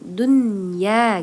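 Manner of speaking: "Dunya" whispered slowly, no nasal hum; "Dunya" whispered without dengung. Shown as a demonstration. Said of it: "maka bacanya tidak dengung".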